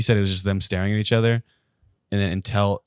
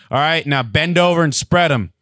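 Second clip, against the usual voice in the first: barking guard; 8 semitones higher, 6 dB louder than usual. Retold or imitated. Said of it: "They're like".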